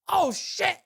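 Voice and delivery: high, mock-shocked exclamation; startled. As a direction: act out sudden dismay, laughing after. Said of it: "his face was like".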